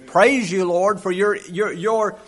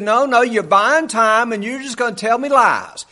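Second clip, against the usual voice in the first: higher and louder accusing king; angry king; 6 semitones higher, 4 dB louder than usual. Retold or imitated. The king accusing his advisors of stalling, angry. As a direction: snap at the advisors. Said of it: "He said".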